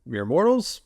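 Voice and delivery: theatrical spooky host greeting; horror host. Acted. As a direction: welcome them like a horror host. Spooky haunt welcome greeting.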